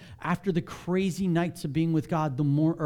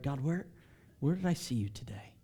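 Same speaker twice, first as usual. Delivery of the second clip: softer whispered prayer; 2 semitones lower, 6 dB quieter than usual. Retold or imitated. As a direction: hush it like a prayer at night. Quiet journal prayer.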